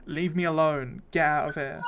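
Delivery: loud, pushy shout to drive them off; angry shout. Acted. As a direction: yell at the stranger to leave. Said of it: "the tiefling lady shouts at you".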